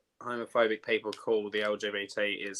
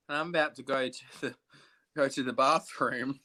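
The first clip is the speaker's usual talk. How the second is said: quick, oddly secretive announcement; suspicious. Real, not acted. Telling wifey he's off to the bathroom, sly and suspicious. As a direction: say it like you're hiding something. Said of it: "Why did I say it so suspiciously like that?".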